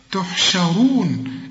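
تحشرون slow, thin shin and full heavy ra. Shown as a demonstration. Teacher correcting the student on تحشرون. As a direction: thicken only the ra in تحشرون. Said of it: "الراء هي المفخمة".

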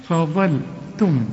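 فضلتم slow with a thin ف and a thick ظ; light fa, heavy dha. Shown as a demonstration. Teacher modeling the word slowly for the student. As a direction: keep the ف light and make the ظ full. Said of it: "رقق الفاء وفخم الظهر".

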